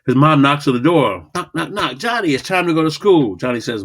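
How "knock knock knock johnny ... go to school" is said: mom calling. Acted. Mom voiced in a story.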